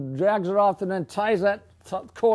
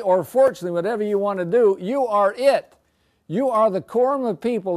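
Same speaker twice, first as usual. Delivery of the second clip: rousing exhortation; 4 semitones higher, 5 dB louder than usual. Real, not acted. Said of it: "teacher exhorts the class".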